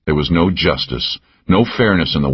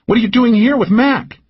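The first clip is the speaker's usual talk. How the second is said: higher, teasing woman's voice; Cal's voice. A narrator's reading. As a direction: needle him with a pitched-up lilt. Narrator voices Cal.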